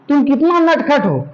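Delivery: mock-scold a naughty child; scolding teacher. Shown as a demonstration. Teacher pretends to scold a naughty boy, mildly stern. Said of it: "जब गलती करेगा तो डांट के बोलेगा".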